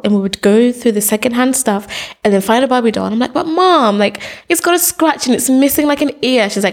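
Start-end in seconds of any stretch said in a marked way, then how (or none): 3.3-6.5 a hint of childish protest, higher at first; lightly voiced complaining child. Child to mom over scratched doll, mock complaint. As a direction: lightly play a disappointed kid.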